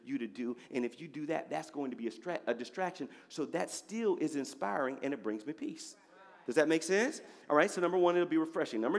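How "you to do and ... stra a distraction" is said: gently steer a son away, voicing the Lord; quiet, reassuring fatherly voice; gentle Lord speaking. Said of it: "So the Lord would tell me".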